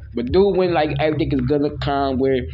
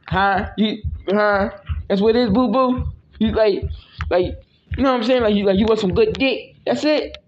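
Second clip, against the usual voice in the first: mock teasing; 5 semitones higher than usual. Mock teasing his partner, high.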